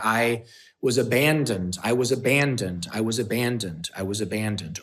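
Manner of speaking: the same falling tune each time, fading; repetitive script. Retold or imitated. Replaying his script of pain to himself, repetitive and fading. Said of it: "over and over again".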